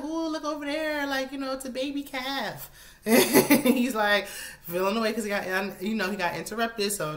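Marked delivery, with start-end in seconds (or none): 0.0-2.7 voiced high and chirpy, imitating her; a higher mock of her pointing out the calf; high mock excitement. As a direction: vlogger imitating the wife cutting in with a high, bright "ooh". Voicing her interrupting him.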